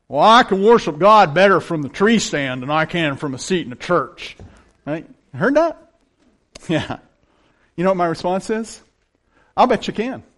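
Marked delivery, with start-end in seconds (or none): 0.2-4.4 heavy, laid-on put-on rural country accent. Speaker quotes a line people often say to him, in a redneck accent. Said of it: "I'm going to say it like a redneck".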